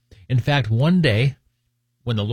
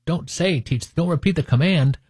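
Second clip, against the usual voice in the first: lightly acted insistent parent, higher pitch; mock exasperated correction; 4 semitones higher than usual. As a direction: correct the child, raised pitch, mildly exasperated. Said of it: "And I'm like".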